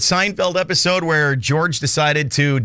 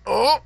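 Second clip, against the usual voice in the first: high-pitched pained "oh"; mock twinge of back pain; pained groan; 9 semitones higher than usual. Acts out straightening a sore back.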